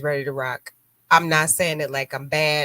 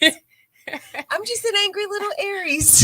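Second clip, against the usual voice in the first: put-on much higher and slower, a sweet, babyish pout; cutesy little-girl voice; slower than usual. To her cohost, mocking her own temper: a high, slow, babyish pout. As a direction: say it like a tiny pouting child. Jokingly calls herself cute-angry.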